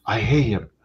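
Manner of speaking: imitating a child's shouted hate; mock angry kid. Mimicking Bella yelling from the background. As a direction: play the sulky kid yelling about him. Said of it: "She'll be in the background going like".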